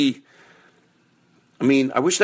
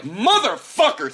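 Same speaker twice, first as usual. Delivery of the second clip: drawn-out, much higher curse; triumphant curse; 12 semitones higher than usual. Pretend. Picturing the listener's victory, a stretched curse. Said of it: "you're gonna be like".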